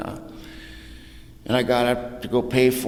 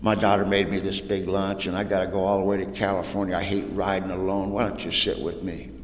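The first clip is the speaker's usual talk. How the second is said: softer, understated kindness; sweet elderly lady; 2 semitones lower, 4 dB quieter than usual. Retold or imitated. Elderly lady inviting a lonely little girl over, gently sweet. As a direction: gently imitate a kind old woman's invitation. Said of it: "She was the sweetest thing".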